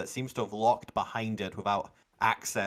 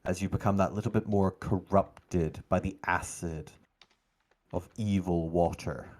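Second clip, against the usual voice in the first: game master narration. A narrator's reading. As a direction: narrate deliberately, letting pauses hang.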